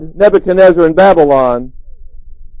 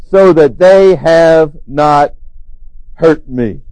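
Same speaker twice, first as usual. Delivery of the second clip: calm testimony; 2 semitones lower, much slower than usual. Retold or imitated. Daniel reports his rescue.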